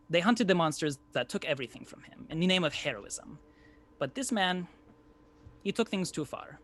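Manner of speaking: put-on lightly done Sicilian Italian accent, storyteller reading. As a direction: tell the tale in a gentle Sicilian accent, like an Italian American cooking show host. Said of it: "a Sicilian accent".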